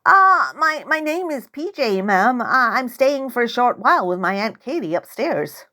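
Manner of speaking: nervous stammer. Acted. Nervous girl answering old woman.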